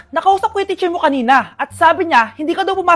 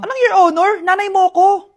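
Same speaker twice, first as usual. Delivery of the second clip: mock scolding mom; 3 semitones higher, 7 dB louder than usual. Mother scolding her daughter.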